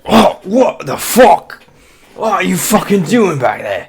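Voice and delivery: high, loud startled yelp; startled goon. Acted. Goon yelling at the climber on his back. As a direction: jolt up in shock and swear. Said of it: "he lurches forward like".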